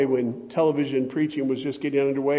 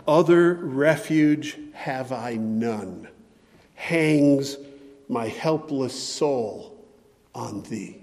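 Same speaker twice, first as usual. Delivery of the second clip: quoting a hymn lyric; 3 semitones lower, slower than usual. Acted. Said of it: "humming Charles Wesley's hymn".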